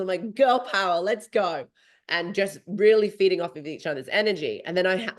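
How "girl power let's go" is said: put-on rally her with "Girl power, let's go"; pumped-up cheer. Runner cheering on her Italian pace partner, pumped up. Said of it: "gilling her knuckles".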